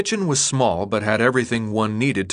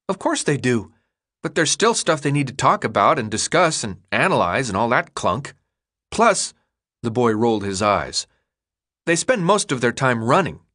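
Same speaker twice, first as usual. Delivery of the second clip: put-on know-it-all boy. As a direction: explain the obvious like a smug kid. Chuck rolling his eyes.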